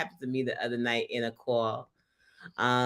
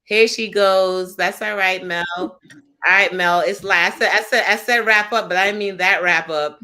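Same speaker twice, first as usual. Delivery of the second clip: high, loud playful ribbing; host welcomes her guest back, laughing; excited teasing; 7 semitones higher, 8 dB louder than usual. Real, not acted. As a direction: tease her happily as she returns. Guest rejoins, host teases loudly.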